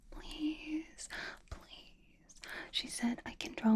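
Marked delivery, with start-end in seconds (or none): 0.1-1.1 high pleading whisper. Acted. Begging to be her model. 1.5-2.4 much softer trailing please; fading plea. Acted. Begging to be her model.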